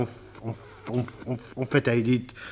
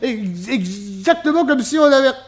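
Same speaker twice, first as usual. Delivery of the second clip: high voice bubbling with laughter; laughing; 11 semitones higher, 5 dB louder than usual. Acted. Witness tells the detective how the prank backfired, laughing. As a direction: giggle through the words.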